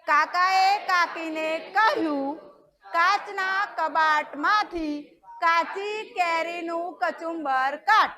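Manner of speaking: very slow, each syllable spaced for the class to repeat; teacher leading a slow tongue twister; slow choral repetition. Shown as a demonstration. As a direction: drill it slowly so they can follow. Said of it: "બોલો મારી જોડે".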